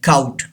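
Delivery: COAT said as "cout", rhyming with out; wrong pronunciation. Shown as a demonstration. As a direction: say "cout" with an "ow" vowel. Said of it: "दोनों गलत हैं". (cout यानी "काउट", गलत उच्चारण)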